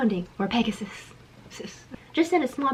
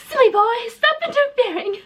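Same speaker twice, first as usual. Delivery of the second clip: high, hammed-up British sorceress; British villain accent; 14 semitones higher, 3 dB louder than usual. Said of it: "Why is she British?".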